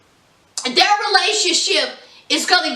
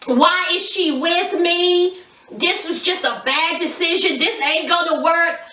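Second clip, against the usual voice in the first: mock crying. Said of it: "is outside crying like a thirteen-year-old girl".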